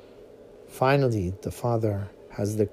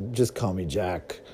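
low voice; 6 semitones lower, 4 dB quieter than usual. Acted. Son insists.

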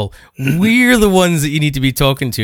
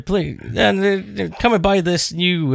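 mock advert pitch, higher voice; jokey commercial; 7 semitones higher, slower than usual. Host improvising a jokey commercial break, mock sales pitch. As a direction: pitch a product as a joke. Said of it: "a kind of jokey commercial break".

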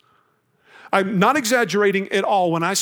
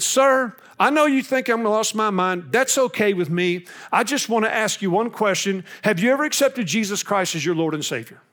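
urgent plea; 4 semitones higher than usual. Retold or imitated. Retold plane question to stranger.

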